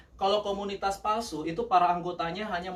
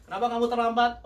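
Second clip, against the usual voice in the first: mock scolding; 6 semitones higher, 4 dB louder than usual. Acts scolding a late friend.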